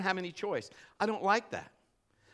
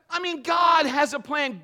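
loud, high shout; preacher's shout; shouted preaching; 6 semitones higher, 8 dB louder than usual. Real, not acted. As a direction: proclaim it to the room.

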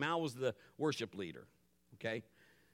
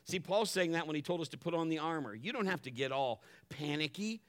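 normal talking voice

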